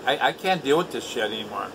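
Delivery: ordinary talk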